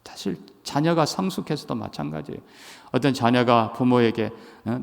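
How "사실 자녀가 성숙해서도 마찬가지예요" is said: whisper. Real, not acted. Aside during sermon.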